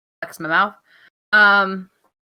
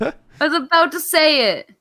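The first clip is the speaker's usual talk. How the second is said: indignant protest; 3 semitones higher, 4 dB louder than usual. Real, not acted. Keeps protesting while co-host laughs.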